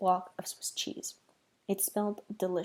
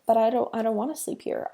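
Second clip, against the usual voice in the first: whining; 4 dB louder than usual. Acted. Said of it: "I whined".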